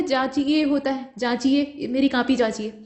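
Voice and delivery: जांचिए ends in a clear ए; जांचिए, with the final ए spoken open; e ending. Shown as a demonstration. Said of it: "जांचिए नहीं होता है".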